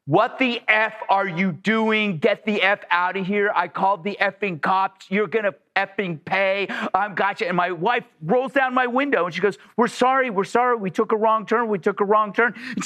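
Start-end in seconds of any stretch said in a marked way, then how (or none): 0.1-7.5 mock angry tirade, not really screamed; retold screaming. Woman orders strangers off her driveway, retold screaming. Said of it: "She's screaming at the top of her lungs". 9.8-12.5 higher-pitched imitation of apologizing; pleading apology. Wife apologizes to the screaming woman, pleading. Acting wife's hurried apology.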